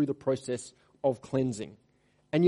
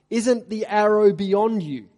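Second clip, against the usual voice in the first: put-on loud, higher call after the boy; 7 semitones higher, 8 dB louder than usual. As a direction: call across the field with the coded signal. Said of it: "Jonathan called out after him".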